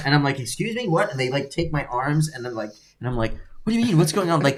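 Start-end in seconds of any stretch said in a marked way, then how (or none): 0.4-1.1 much higher, retold disbelief; startled as plainclothes police grab him; mock surprise. Retold shock at being arrested. 3.6-4.4 much higher, pleading bewilderment; asking the police what is happening; mock alarmed confusion. Retold confusion during arrest.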